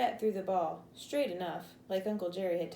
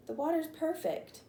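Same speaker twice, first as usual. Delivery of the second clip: excited; 9 semitones higher than usual. A narrator's reading. Boy calling from the creek.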